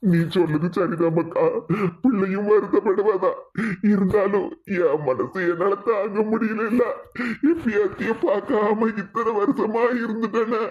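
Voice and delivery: acted weepy regret; tearful. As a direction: concede through sobs, then lament. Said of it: "நீங்க அழுது சங்கடப்பட்டதுனால".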